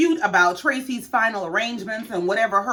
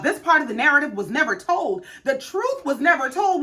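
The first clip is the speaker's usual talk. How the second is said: higher-pitched mild mock yell; retold outcry, pitched up; mock screaming; 5 semitones higher than usual. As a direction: imitate a raised-voice protest without full volume. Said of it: "Tawanda is screaming about".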